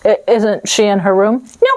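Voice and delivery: ordinary delivery, nothing marked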